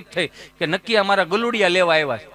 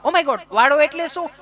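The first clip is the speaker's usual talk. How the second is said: higher, puzzled fussy lady voice; mock city tourist; 6 semitones higher than usual. Tourist puzzled by village word, higher voice. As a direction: ask like a confused city visitor.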